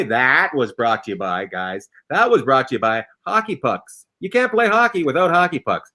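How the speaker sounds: low announcer-style sponsor plug; sponsor read. Acted. Host plugging the show's sponsor to listeners, low announcer read. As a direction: deliver it as a low-pitched ad read.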